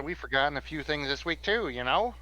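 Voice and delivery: put-on easygoing Southern cowboy accent. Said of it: "how sudden is this accent change".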